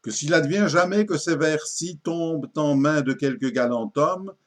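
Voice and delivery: measured, declaimed satirical verse; poetry recitation. Acted. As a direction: recite it as a mock-solemn verse tale. Déclame l'envoi du poème. (déclamation de poème satirique)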